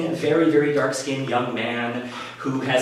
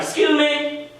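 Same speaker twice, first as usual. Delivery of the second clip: raised-pitch, imitated "excuse me"; higher voice, ordinary volume, asking to pass; imitated passerby; 10 semitones higher, slower than usual. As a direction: play a woman asking to get by. Passerby's first request to get past.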